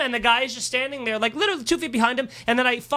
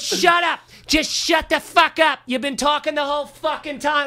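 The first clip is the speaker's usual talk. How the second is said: high, slow imitation shout; retold exasperated yelling; 6 semitones higher, slower than usual. Retelling the next comic scolding noisy audience members, angry yelling. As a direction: act out an angry telling-off. Acting out Bobby yelling at hecklers.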